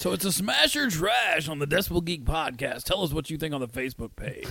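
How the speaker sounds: put-on old-school 80s FM radio announcer voice. Wrapping up a podcast segment, the speaker does an 80s radio dj voice. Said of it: "My inner 80s radio. DJ".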